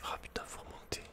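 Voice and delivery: ordinary talk, nothing marked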